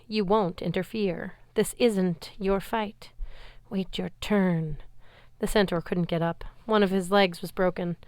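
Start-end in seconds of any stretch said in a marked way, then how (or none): 0.1-4.8 a hint of slow menace; drawn out, a touch of threat; lightly voiced monster guard. Guard monster holding Percy back, lightly menacing. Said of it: "my Draconid guard said".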